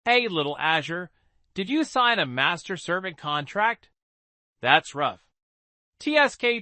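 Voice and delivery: lightly voiced childish teasing. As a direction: tease like a cheeky kid. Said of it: "said in a childish voice".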